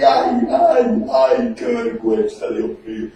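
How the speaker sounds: imitated lament, loud opening fading away; retold tearful shame. Man confessing to the preacher in shame, imitated tearful lament. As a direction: act out a weeping "ay", mildly. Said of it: "lo único que hacía era llorar".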